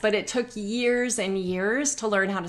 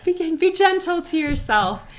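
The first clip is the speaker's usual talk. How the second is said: reassuring; 10 semitones higher than usual. Retold or imitated.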